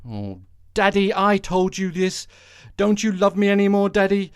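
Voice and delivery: high, pleading daughter voice; whiny Ivanka to Daddy. Retold or imitated. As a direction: whine at Daddy like a spoiled daughter. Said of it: "I imagine they're pretty salty".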